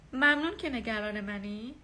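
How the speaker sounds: slow, courteous thank-you; polite thanks. Shown as a demonstration. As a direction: thank them politely, unhurried. (تشکر محترمانه و آرام)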